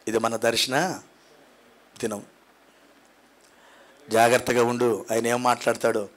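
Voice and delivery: soft, low retelling; quiet, intimate narration; hushed storytelling. Retold or imitated. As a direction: drop the voice as if telling a secret. Quiet retelling of Sarah's laugh.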